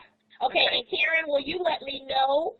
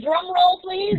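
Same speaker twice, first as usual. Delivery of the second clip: excited; 8 semitones higher, 5 dB louder, slower than usual. Acted. Host hypes the poll result.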